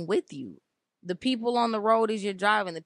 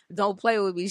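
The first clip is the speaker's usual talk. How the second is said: firm and a bit louder; mean it, no joking; stern warning; 3 dB louder than usual. Retold or imitated. Mother warning her daughter, firm and stern. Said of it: "She know what I say, I'm being serious".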